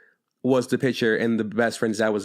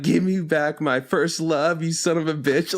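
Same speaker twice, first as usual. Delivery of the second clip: mock crying; 5 semitones higher, slower than usual. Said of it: "She starts crying".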